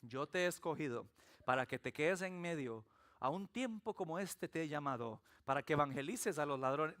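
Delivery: low, soft, solemn calling; mock voice of God. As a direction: intone it like a divine commission. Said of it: "A mí Dios no me dijo".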